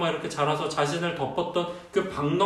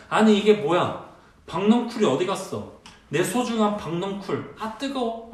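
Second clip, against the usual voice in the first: mildly hammed-up indignation, pitched a little higher; Jonah getting angry; 4 semitones higher than usual. Jonah finds his precious vine gone, mock-angry. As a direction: act out a touch of exasperated complaint. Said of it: "요나가 화를 내기 시작합니다".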